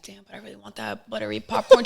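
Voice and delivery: quick pleading with a laugh; laughing whine. Retold or imitated. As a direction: beg for the popcorn, half laughing. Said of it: "I'm just like".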